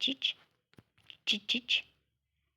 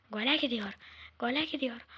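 gole called loud, falling; rising excitement as the attack builds; play-by-play shout of gole gidiyor; excited commentary; 3 semitones higher, 5 dB louder than usual. Real, not acted. Commentating his own game.

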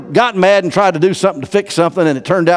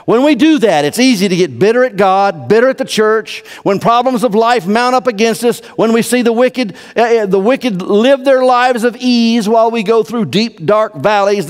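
fervent preaching; 7 semitones higher, 3 dB louder than usual. Real, not acted. Impassioned preaching.

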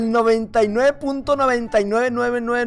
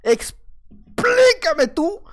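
drawn-out whiny plea; 6 semitones higher, much slower than usual. Acted. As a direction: stretch "Explícame tú" out very slowly, pitched up with a mock cry. Repite la frase para quejarse. ("Explícame tú" alargado, lento y agudo, con llanto fingido)

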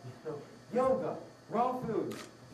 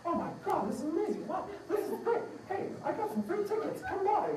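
high, gushing hammed-up friend voice; mock amazed friends; 11 semitones higher than usual. Friends tasting the nut cheese, gushing in a high mock voice. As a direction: squeal it like a delighted friend. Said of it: "And your friends will go".

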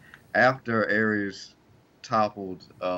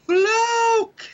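high hammed-up sneer of one word; mocking Roode; 7 dB louder than usual. Imitating Roode's one-word promo, high mock sneer. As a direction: spit it out like the furious champ. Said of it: "he just said one word".

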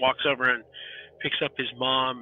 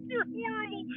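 said through laughter, high; laughing scold at a friend; 10 dB quieter than usual. Real, not acted. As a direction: choke it out while still laughing. GM laughing at callous player.

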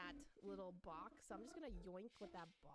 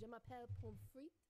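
playful mock French with a rising end; amateur French accent for laughs. Shown as a demonstration. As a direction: introduce yourself as a joke Frenchman. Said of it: "I am French".

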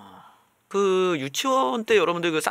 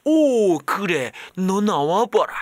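Santa voice; 6 dB louder, much slower than usual. Retold or imitated. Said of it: "이러고".

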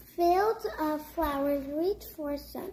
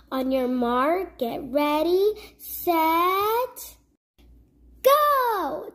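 race countdown; 5 dB louder, slower than usual. Acted. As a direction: count them off and fire the start. Starting the egg hunt race.

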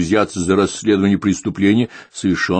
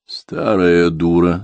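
irritated thought; 4 dB louder, much slower than usual. Acted. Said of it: "раздражённо подумал Дронго".

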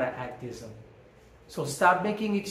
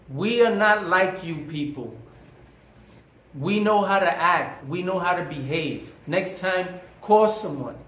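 neighbor scolding him, stern and louder; 3 semitones higher, 4 dB louder than usual. Retold or imitated. Neighbor telling a noisy tenant off, stern and loud. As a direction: lay down the law like an offended neighbor.

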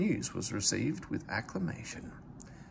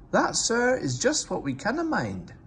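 louder, higher Scottish twin voice; sly Scottish engine excuse; Scottish accent; 11 semitones higher, 4 dB louder than usual. A narrator's reading. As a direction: innocent Scottish twins to the boss. Scottish twins dodging.

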